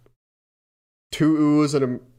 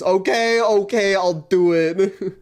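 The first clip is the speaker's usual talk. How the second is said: reluctant excitement; 3 semitones higher than usual. Real, not acted. Giving in excitedly.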